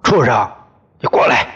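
father-in-law barking at his son-in-law; loud furious call; angry shout. Acted. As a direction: yell it across the yard. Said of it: "对我喊".

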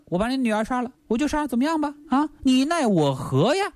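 arrogant. Retold or imitated. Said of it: "多嚣张".

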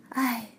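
quiet, weary little sigh; soft sigh. Acted. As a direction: let out a sad sigh. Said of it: "蹦蹦叹了口气".

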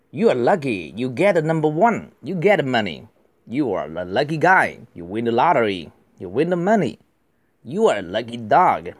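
fluent model reading; read again. Shown as a demonstration. Teacher rereading the whole passage to the class, fluent. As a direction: run the sentences together smoothly. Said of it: "我再读一次".

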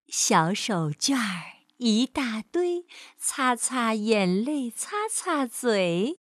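slow, measured nursery-rhyme recitation; teaching a rhyme. A narrator's reading. Mother teaches her son a handkerchief rhyme, slow recitation. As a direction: recite slowly, stretching the words. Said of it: "妈妈教阿文念".

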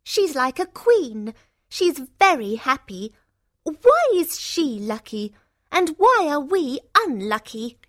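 loud, high-pitched envious protest; angry sister. A narrator's reading. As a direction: protest your sister's luck indignantly. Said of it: "The two sisters are very angry".

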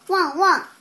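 loud barking dog voice. Acted. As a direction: bark like a puppy. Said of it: "帕奇叫了起来".

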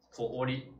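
通り with a lengthened o; long o. Shown as a demonstration. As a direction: hold the tō of 通り before ri. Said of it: "都是o来表示长音的". (通り的o拉长)

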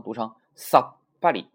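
さっぱり cut short after さ, then loud ぱり; sokuon pause demo. Shown as a demonstration. Teacher reads the new word for learners, firm held stop. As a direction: hold a silent beat inside さっぱり. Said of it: "那么读成什么呢".

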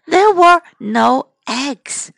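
slow, "there" stressed; slow modelling. Shown as a demonstration. Teacher modelling the line for children, slow. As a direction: say it slowly for repeating.

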